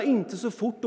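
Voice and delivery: yelling warning. Retold or imitated. A kid yelling at his speeding dad, mock yell. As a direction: roar the warning with a laugh. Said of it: "Tänk dig själv, att vråla".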